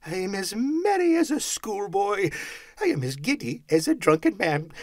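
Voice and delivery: high, loud jubilation building to whoops; giddy Scrooge. A narrator's reading. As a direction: shout greetings to all the world. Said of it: "laughing and crying in the same breath".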